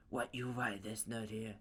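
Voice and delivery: loud, indignant rival voice; aggressive, incredulous character voice; Katsuki. Acted. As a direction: demand it loudly, with disdain. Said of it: "Katsuki looks at All Might and says".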